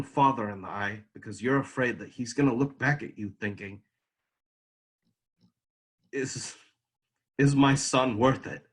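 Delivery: troubled son, halting and emotional; dramatic monologue of a wounded son; anguished monologue character. Acted. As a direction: let the hurt break up the phrases.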